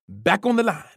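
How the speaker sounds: a mild loud bark; barked order. A narrator's reading. Coach sends the runner back with a mild bark. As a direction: snap the order at him. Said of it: "he barked".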